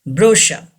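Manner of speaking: brochure as "BRO-sha", no R at the end; brochure, stressed first, ending in "sha"; silent final R. Shown as a demonstration. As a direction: say brochure with CH as "sh" and drop the last R. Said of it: "R is not pronounced".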